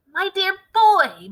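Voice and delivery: high, slow and loud, swelling with eagerness; excited cry. A narrator's reading. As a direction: cry it out like a man bursting with a plan.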